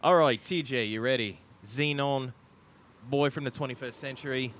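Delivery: put-on Aussie accent that lands posh; put-on Australian game host. Host calling up the next player, posh-sounding Aussie accent. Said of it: "Why do you sound like a posh".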